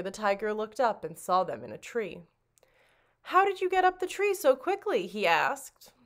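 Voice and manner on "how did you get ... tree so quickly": surprised, high. Acted. Tiger asks children in tree.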